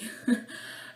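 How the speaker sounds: short real giggle. Real, not acted. Vlogger unsure where to put her soap, giggling. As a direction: giggle to yourself for a moment. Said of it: "désolée si je ris un petit peu pour rien".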